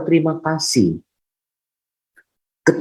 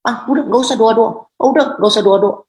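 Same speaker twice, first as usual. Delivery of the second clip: higher-pitched dismissive grumble; mock grumbling; 6 semitones higher than usual. Preacher acts out believers who give up praying, mock grumbling. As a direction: imitate a believer fed up with praying. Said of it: "Suka ngomel Tuhan".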